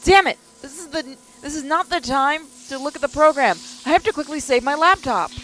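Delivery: frantic and panicking; panicked shouting. Acted. Rushing to save laptop.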